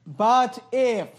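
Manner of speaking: pointed, mildly sarcastic setup; a touch of sarcasm in a quoted line. Retold or imitated. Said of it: "notice again the sarcasm".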